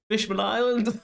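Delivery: put-on very high, loud squeaky kid voice; cheeky child. Bonnie naming her next trip, squeaky high kid voice. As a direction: squeak it like a cheeky little girl.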